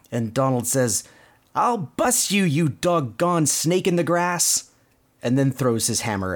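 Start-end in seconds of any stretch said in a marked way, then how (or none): 1.5-4.7 high, drawn-out cartoon threat; mock outrage, pitched up; mild retold yell. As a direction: threaten it slowly and higher, without shouting. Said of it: "Donald kinda yelling at the spring".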